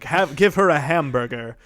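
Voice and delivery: loud American dub parody; mock American voice actor. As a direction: overplay the American accent. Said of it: "they cast American voice actors".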